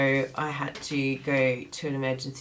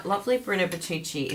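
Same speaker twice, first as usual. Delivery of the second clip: normal talking voice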